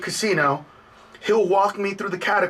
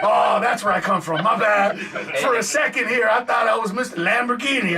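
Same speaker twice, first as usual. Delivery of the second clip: self-mocking laugh; 3 semitones higher than usual. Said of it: "I'll be like".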